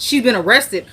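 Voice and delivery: lightly acted shocked husband; mild retold disbelief. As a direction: echo it back as a startled question. Husband reacts to the news.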